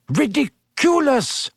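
high, drawn-out cry; Parvati. A narrator's reading. Pupil facing a bandaged mummy, high cry. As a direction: cry the spell out slowly, pitch up, volume contained. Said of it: "cried Parvati".

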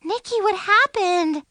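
high, startled question; gasping in alarm. A narrator's reading. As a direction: ask in sudden alarm. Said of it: "Chloe gasped".

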